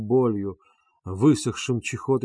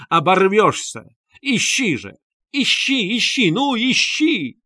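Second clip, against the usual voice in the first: high, loud, furious retort; shrill fury mounting to a shout; heated quarrel; 5 semitones higher, 5 dB louder than usual. Acted. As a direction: hurl taunts at him, rising. Katerina quarrels with Luzhin.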